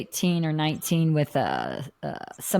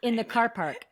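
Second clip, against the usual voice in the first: a hint of an Irish accent, laughing at the end; lightly put-on Irish to husband in the car; mock Irish accent; 3 dB quieter than usual. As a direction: tease her with a borrowed Irish accent. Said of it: "you're like".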